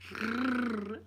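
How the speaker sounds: rolled r demo. Retold or imitated. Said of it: "We're going, "No".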